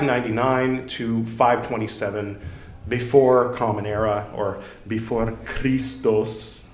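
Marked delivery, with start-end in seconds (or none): 4.3-6.6 put-on slow, slightly foreign accent on Christos; odd put-on accent. Podcast host drifts into an accent while explaining dates, slow foreign accent. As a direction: slip into a foreign accent for one phrase. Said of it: "I don't know why I'm choosing that accent".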